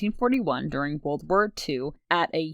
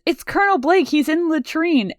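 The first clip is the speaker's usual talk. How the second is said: high mock Radar yelp; high-pitched Radar impression; imitating Radar; 11 semitones higher, 3 dB louder than usual. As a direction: squeak it out like panicked Radar. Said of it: "Radar runs in and he says".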